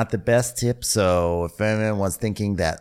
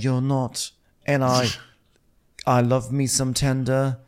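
put-on Chinese accent; 3 semitones higher than usual. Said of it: "In, in her Chinese accent".

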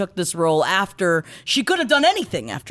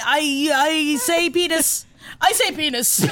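silly high voice; 8 semitones higher, slower than usual. Acted. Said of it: "I'm sorry".

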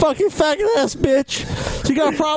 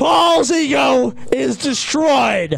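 gloating shout; 3 dB louder, much slower than usual. Real, not acted. Gloating at opponent.

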